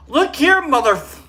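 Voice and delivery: sudden high, loud mock telling-off; hammed-up rage, swallowed before the swear; mock angry outburst. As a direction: bark it like you're picking a fight, then cut yourself off. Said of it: "I can't even say it without".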